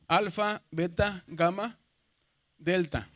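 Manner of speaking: loud, crisp alphabet drill, one letter at a time; loud drill recitation. Shown as a demonstration. Teacher calling out the Greek letters for the class, loud and deliberate. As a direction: call each letter out so the class can follow. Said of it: "teacher drills alphabet aloud".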